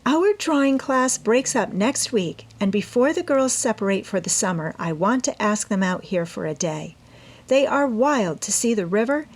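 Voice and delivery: put-on eager young woman explaining her plan to her mother; Amy's voice. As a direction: plead your case brightly as the eager daughter. Amy's long plea.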